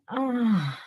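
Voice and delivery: long audible exhale; dramatic sigh. Shown as a demonstration. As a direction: sigh it all out. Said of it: "just one more time".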